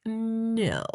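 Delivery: high, drawn-out no; retold disbelief. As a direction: stretch out a mock-stunned no. Friend's astonished reply, retold.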